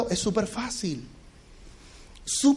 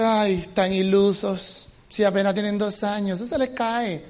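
mock dismissiveness; 3 semitones lower, 4 dB quieter, slower than usual. Voicing dismissive sceptics.

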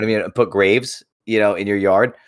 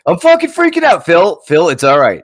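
hammed-up high panic, louder; mock Monty Python panic; panicked buried man; 4 semitones higher, 4 dB louder than usual. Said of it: "a terrible Monty Python's".

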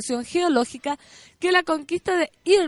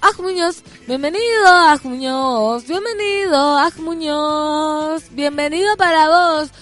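booming drawn-out announcer welcome; 5 dB louder than usual. Acted. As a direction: hype the name like a ring announcer. Fanfare welcome to new colleague.

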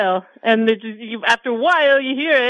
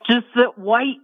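slow, dreamy savoring of the food; slower than usual. Acted. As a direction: draw out each word like tasting it. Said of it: "That almost sounded orgasmic".

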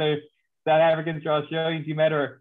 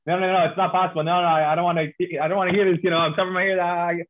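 hammed-up refusal to believe, a bit higher and faster; mock denial; 4 semitones higher than usual. Cricket insider who can't accept an American, mock panicked denial. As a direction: play the cricket fan plugging his ears in disbelief. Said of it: "there's this denial, this refusal to accept".

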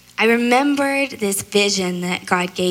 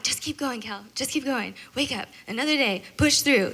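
softer murmured pep talk to herself; tired soft self-encouragement; 3 semitones higher, 5 dB quieter than usual. Retold or imitated. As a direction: coax yourself along under your breath.

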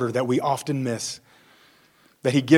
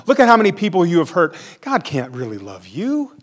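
louder, faster, scornful jeer with a laugh; mocking accuser; 4 semitones higher, 5 dB louder than usual. The devil mocking the believer, loud scoffing laugh. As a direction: build to a sneering taunt.

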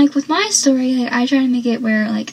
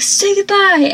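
higher, louder acted-out threat; mock menacing command; 9 semitones higher, 4 dB louder than usual. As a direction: order it like a retold movie villain. Acting out Eddie's threatening line again.

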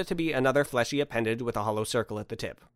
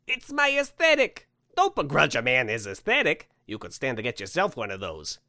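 defensive Santa; 2 semitones higher than usual. Acted. Santa defends his style to critical guest, mildly affronted.

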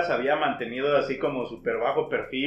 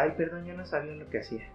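mock apology; 11 dB quieter, much faster than usual. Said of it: "que fue la que puso su carta".

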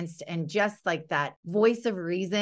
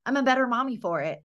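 put-on higher, sweet voice of a mom talking to her little girl; gentle mom to daughter; 6 semitones higher, faster than usual. Mom apologizing to her daughter, lightly higher and sweet. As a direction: speak to your kid like you're making up after a rough moment. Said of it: "just be like".

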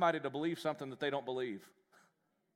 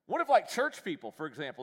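sarcastic jab; 5 dB louder than usual. Acted.

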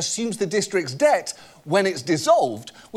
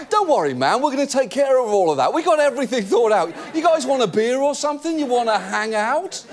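frat bro; 5 semitones higher than usual. Retold or imitated. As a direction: talk the cops down like a frat guy. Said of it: "sounds like a frat boy trying to reason with the cops".

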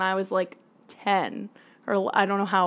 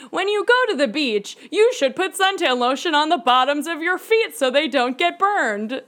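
lightly put-on, higher presenter voice; sketch presenter; 5 semitones higher than usual. Co-host imitating a sketch's random tip, mock informative. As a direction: deliver silly advice as earnest information, pitched up. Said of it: "like, she would tell, like, uh, a random thing".

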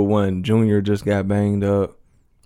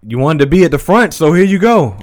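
imitating a character; 5 semitones higher, 7 dB louder than usual. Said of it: "or whatever he said".

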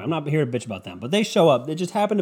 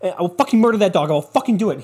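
hammed-up furious neighbor threat, higher and fast; annoyed neighbor ranting about a dog; mock angry neighbor; 6 semitones higher, faster than usual. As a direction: act out the fed-up neighbor losing it. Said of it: "be like".

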